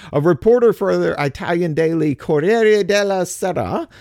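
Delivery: a light Italian accent on Corriere della Sera; a hint of an Italian accent on the paper's name. Shown as a demonstration. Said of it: "I tried to throw a little Italian accent in there".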